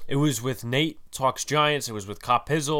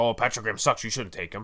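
mock sarcastic tone. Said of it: "I'm not being sarcastic like".

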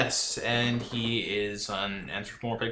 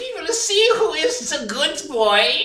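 shrill, fake German villain accent; 8 dB louder than usual. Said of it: "a very German accent".

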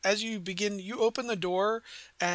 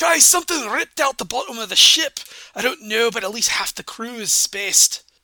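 very loud put-on pirate dwarf voice; 3 semitones higher, 11 dB louder than usual. A character speaks to the group during an attack on the ship, pirate dwarven accent. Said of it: "he says back in his like pirate dwarven accent".

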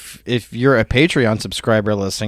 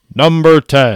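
loud, booming radio announcer voice; 3 semitones higher, 5 dB louder than usual. Announcing the next entry in a countdown, imitating Jason's broadcaster voice. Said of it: "I want to try to do Jason's Roadcaster voice".

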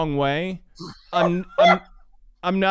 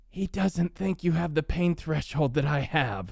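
put-on loud stage whisper; 5 dB quieter than usual. Retelling what a wife said to tease: imitating a loud whisper.

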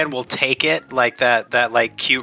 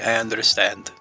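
theatrical stage whisper; 3 semitones lower, 3 dB quieter than usual. Voicing a character reassuring a frustrated captain: stage whisper. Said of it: "kinda stage whisper to her".

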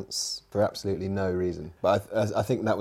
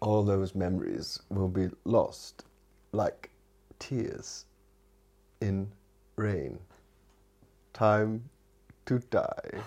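slow, dramatic, every word drawn out; 3 dB quieter than usual. Doing a Rutger Hauer impression when asked for the speech. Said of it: "doing your best Rudger".

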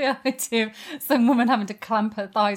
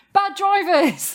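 high-pitched, shrill, fake shouted rant; 9 semitones higher, 6 dB louder than usual. Showing how the rant episode will go: mock yelling complaints. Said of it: "I'm just gonna be yelling out things I don't like".

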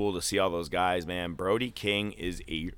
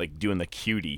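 normal talking voice

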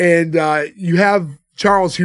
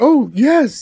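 put-on, pitched-up higher woman's voice; 8 semitones higher, 3 dB louder than usual. Retelling how Charles mimicked his date answering his invitation: imitating Gwendolyn's voice. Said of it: "he mimics her voice".

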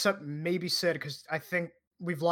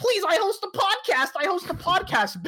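frantic, desperate, very high pleading shout; 12 semitones higher, 5 dB louder than usual. Speaker imagining being dragged out of a party, acting out a begging yell. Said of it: "while I'm yelling".

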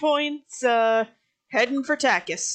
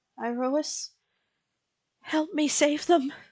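quiet murmur under the breath; 3 semitones higher, 4 dB quieter than usual. Voicing a character releasing an arrow and praying: murmured under her breath. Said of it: "she sort of murmurs under her breath".

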